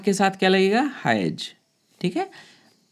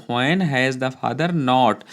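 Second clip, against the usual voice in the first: slow dictation; 3 semitones lower, much slower than usual. Shown as a demonstration. Teacher dictating a sentence.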